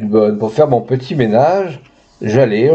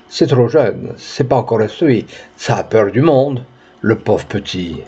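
kind murmur. Acted. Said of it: "murmura avec bonté".

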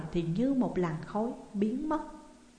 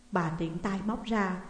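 ordinary delivery

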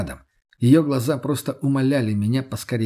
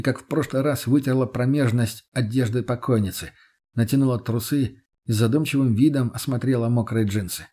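plain reading voice

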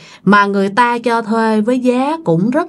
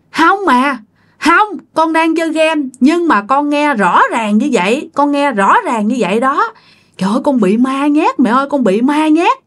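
put-on pleading child; 6 semitones higher than usual. Child insists to mother.

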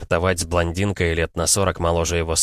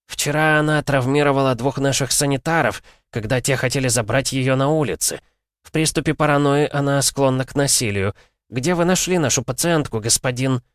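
put-on stern old doctor; 7 semitones higher than usual. A narrator's reading. Old man voiced in story.

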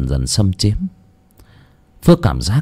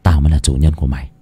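through gritted teeth; 7 semitones lower, faster than usual. Acted. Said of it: "nghiến răng".

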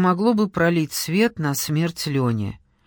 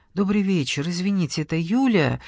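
hesitant, unsure opening on the phone; feeling her way with a stranger; lightly unsure greeting; uncertain. Acted. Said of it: "неуверенно произнесла Кира".

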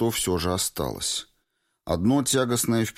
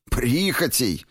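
exclaimed; 7 semitones higher, 3 dB louder, slower than usual. A narrator's reading. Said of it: "воскликнул он".

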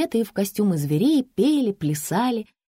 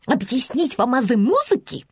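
condescending; 6 semitones higher than usual. A narrator's reading. Haughty woman offers to explain.

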